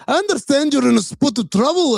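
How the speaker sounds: high, hammed-up English gentleman; mock posh English. Podcaster mimics the Major's English accent, hammed-up. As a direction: lightly put on a British toff voice. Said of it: "he doesn't have an accent".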